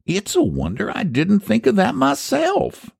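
high-pitched, earnest country wonderment; solemn. A narrator's reading. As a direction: admit it with mock-grave admiration. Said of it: "said Eph solemnly".

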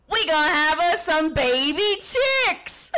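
put-on Southern twang; Southern US imitation; Southern accent. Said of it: "do a better Southern accent than us".

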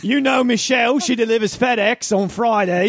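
put-on lightly done Australian bloke accent, mate; a hint of a laid-back Australian neighbour; put-on Aussie accent. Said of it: "What do you think that accent is?".

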